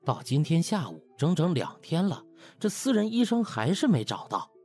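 ordinary delivery

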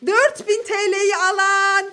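slow, grand winner announcement; game show announcer. Acted. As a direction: announce the prize winner slowly.

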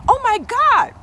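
squealing over her own tight skin; amazed excitement. Retold or imitated. Retelling her morning surprise, high excited squeal. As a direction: voice shooting high and loud, giddy disbelief. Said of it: "I was like".

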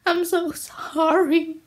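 slow, drawn-out fake sorry; mock apology. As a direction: stretch out a hollow "sorry". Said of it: "Is what I'm not gonna say".

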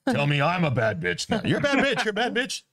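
high, strange monster voice; Kraken voice. Retold or imitated. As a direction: ham it up like a sea monster. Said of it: "it's her Kraken voice".

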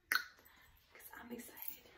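slow, breathy tipsy whisper. Real, not acted. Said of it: "And I'm a little tipsy".

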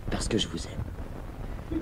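slow breathless whisper; whispered confession. Acted. Topaz confessing love to Mademoiselle Muche in a slow whisper.

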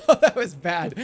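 laughing. Real, not acted.

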